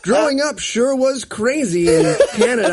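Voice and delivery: camp it up like a diva caught off guard; mock newscaster one-woman show. Mocking the anchor's one-woman show, half laughing. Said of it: "like she's about to do her one-woman show".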